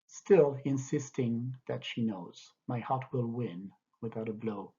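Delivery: measured reading of a translated poem; poetry reading. Acted. Teacher reading the translation to students, gentle poem reading. Reads English translation aloud.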